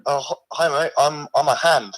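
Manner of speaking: a lightly put-on, weak Australian accent; a mock Aussie bloke voice, barely there; poor Australian accent. A severed hand calls the stream in a poor Australian accent. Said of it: "it's a pretty poor accent".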